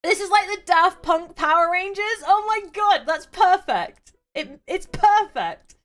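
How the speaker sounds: high, loud delight; excited. Real, not acted. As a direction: gush with real glee. Delighted reaction to the image.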